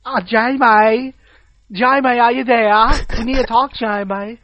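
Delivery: badly faked accent, vaguely Asian; muddled put-on accent. Calling Jamie as a ringtone, muddled Asian-tinged accent. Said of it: "it sounds kinda Asian now".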